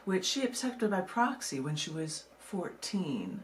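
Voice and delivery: poem reading. Acted. Reads her poem aloud.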